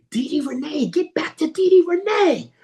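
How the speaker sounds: high, sung-out radio host call. Pretend. Comic calling out the DJ's name like a radio host. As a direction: announce it like a DJ jingle.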